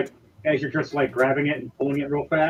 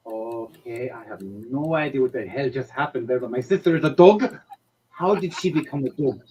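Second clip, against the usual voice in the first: bewildered Chrome; 2 semitones lower than usual. Acted. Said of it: "back at Chrome going".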